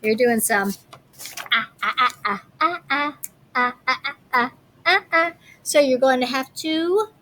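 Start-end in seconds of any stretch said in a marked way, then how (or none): 1.5-5.3 "ah" said over and over as a sound drill; repeated ah sound. Shown as a demonstration. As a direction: drill the short ah. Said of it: "makes an ah sound".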